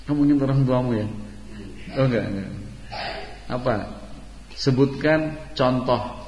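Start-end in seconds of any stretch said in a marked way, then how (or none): 4.5-6.2 slow dictation. Real, not acted. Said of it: "teacher sets a question".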